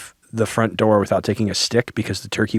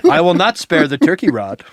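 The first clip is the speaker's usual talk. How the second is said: lightly hammed-up solemn threat; mock stern parent; 3 semitones higher than usual. Parent warning disobedient children about turkey rod, mock-stern. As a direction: pronounce a pretend punishment.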